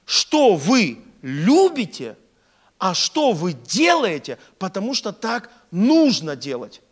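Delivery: slow, loud stress on любите and делаете; emphatic repetition. Real, not acted. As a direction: hammer out each key word slowly. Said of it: "Ещё раз повторюсь".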